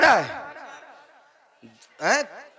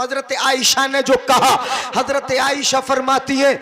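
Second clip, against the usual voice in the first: measured, sustained preaching delivery; sermon declamation. Acted. Preacher quoting Aisha's praise to the congregation, declaimed. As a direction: declaim the verse on a steady, ringing line.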